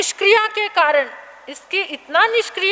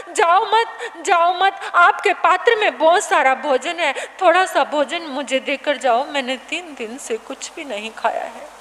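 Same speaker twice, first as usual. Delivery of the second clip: put-on desperate child clinging to the monk, begging for food; pleading hungry boy; 3 semitones higher than usual. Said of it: "पकड़ कर कहने लगा".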